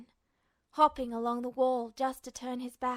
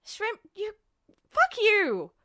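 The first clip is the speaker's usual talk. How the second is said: higher, much louder enraged yell; furious outburst; 8 semitones higher, 7 dB louder, slower than usual. Acted. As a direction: blow up at being called small. Ed exploding at shrimp insult.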